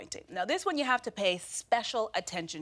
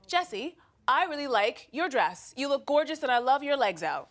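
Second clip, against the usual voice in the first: sincere compliment; 2 semitones higher than usual. Shown as a demonstration. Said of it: "when you tell the truth".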